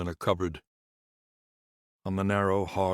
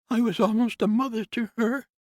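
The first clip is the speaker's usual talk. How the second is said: much higher, louder nurse's voice, tearful; 7 dB louder than usual. Acted. Nurse tells Conrad she was like a mother, tearful higher voice. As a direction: press the grief into each word. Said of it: "said Atreya tearfully".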